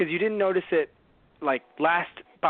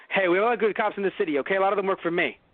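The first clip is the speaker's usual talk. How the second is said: rushed mumble; 2 semitones higher, faster than usual. Retold or imitated. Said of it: "He was saying".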